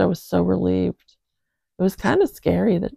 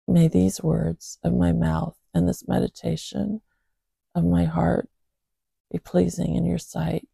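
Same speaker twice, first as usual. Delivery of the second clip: scripture reading. Acted. Reads a psalm aloud.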